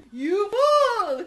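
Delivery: loud croaking yell at the scorpion; croaking frog shout. Acted. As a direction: croak it out, high and furious. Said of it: "croaked the frog".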